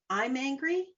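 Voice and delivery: mildly heated declaration; demonstrated anger. Shown as a demonstration. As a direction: say it caught up in the anger. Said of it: "difference in the way I say that".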